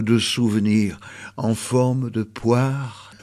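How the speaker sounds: measured reading, lingering on line ends; poetry read aloud, slowing as it unfolds; poem recitation. Acted. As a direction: recite a chain-linked poem, stretching some phrases. Recites Valérie Rousseau's poem.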